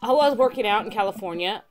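chill surfer, happy reunion; surfer dude voice. Acted. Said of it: "the surfer dude voice has gotta stay".

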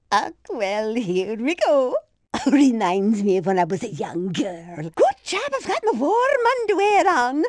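lightly voiced elderly lady passenger, fussing and chirpy; a dotty granny rattling on mid-race, gently put on; chatty old lady. Old lady racer game barks.

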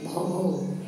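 lightly imitated dog woofs; two small pretend barks. Shown as a demonstration. Teacher shows children what a dog says, light barking. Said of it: "Dog says".

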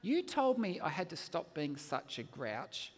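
put-on slow, measured little-kid reproach; lightly voiced child, taking it slowly; daughter answering back. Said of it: "And she says".

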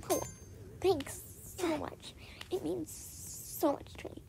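soft, breathy-sounding half whisper, slowed; imitating a friend's hushed thank-you; mock grateful. Friend thanking her for the book, hushed mock gratitude. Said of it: "And she was like".

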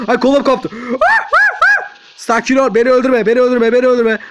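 loud, high wailing plea; hammed-up panic. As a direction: wail and beg as if wounded. Hurt, begging game enemy.

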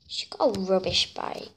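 whispered snide aside. Real, not acted. Mocking the girl's bike, whispered. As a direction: whisper the insult behind her back.

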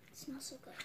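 soft ASMR whisper. Real, not acted. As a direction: whisper it close to the mic. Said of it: "I kind of wanted to do a little bit of A S M R".

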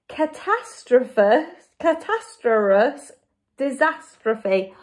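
"catastrophe" very slowly, syllable by syllable, unsure; tricky-word attempt. Shown as a demonstration. Reader struggles with a tricky word, "catastrophe" slowly sounded out. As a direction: feel your way slowly through "catastrophe" and "disastrophe". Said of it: "another tricky word that I can't".

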